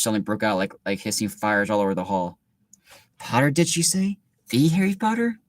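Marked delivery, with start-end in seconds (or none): 3.2-5.4 surprised whisperers. Acted. Whispering students in the hall.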